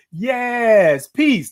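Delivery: drawn-out affirmation, lifted at the end; emphatic reading. Shown as a demonstration. Host showing how she would say the comment, emphatic. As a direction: savor each word of the comment. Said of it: "That's how I was saying".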